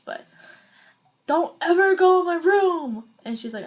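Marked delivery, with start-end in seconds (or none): 1.2-3.0 high, loud, slow angry brother; bad guy voice. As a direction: yell it like a raging brother. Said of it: "that was a horrible guy voice".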